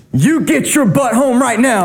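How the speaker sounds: P=A; angry mom. Retold or imitated. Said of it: "And my mom's saying".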